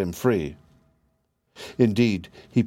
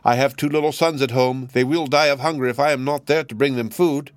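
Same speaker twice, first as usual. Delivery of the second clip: pleading stork; 5 semitones higher than usual. Acted. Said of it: "cried the stork".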